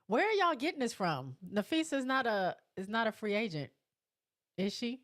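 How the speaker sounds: can't believe what they're saying; surprised disbelief. Real, not acted. Disbelief at wrong free agent claim.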